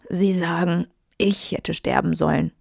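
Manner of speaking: plain reading voice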